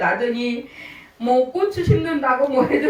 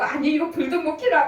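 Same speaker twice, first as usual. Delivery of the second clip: fuming complaint; 6 semitones higher than usual. Retold or imitated. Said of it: "막 씩씩거리면서".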